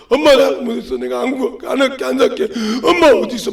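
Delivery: mock tearful pleading; lightly acted kid calling for mum; imitated crying child. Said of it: "막 울어".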